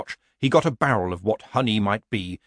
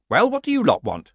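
Nanny Ogg demanding, a touch higher and sharper; 10 semitones higher, 4 dB louder than usual. A narrator's reading. Old witch demanding of the villagers. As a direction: put a demanding edge on it. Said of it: "she demanded".

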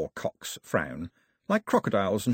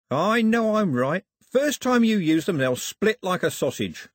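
higher, loud, mock-friendly villain; jeering rogue sailor; 9 semitones higher, 3 dB louder than usual. First Mate Cox greets Daphne like a long-lost friend, mock-friendly rogue. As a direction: greet them with oily, rough-spoken cheer.

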